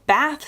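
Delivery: bath with the short A of cat; American "bath", vowel matching cat. Shown as a demonstration. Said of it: "sounds more like cat in my accent".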